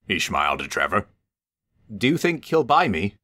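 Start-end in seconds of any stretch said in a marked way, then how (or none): 2.0-3.2 hopefully. A narrator's reading. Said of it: "asked Trevor hopefully".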